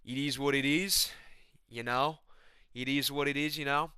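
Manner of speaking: lightly imitated Aussie fighter; Volkanovski. Shrugging off talk with a catchphrase, half-successful Aussie impression. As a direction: attempt an Aussie catchphrase, lifting at the end. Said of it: "I can't do a Volkanovski".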